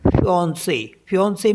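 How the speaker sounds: फियांसे with a nasal middle and a final ay; French fiancé, accented final E said; French pronunciation. Shown as a demonstration. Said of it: "F I A N C E".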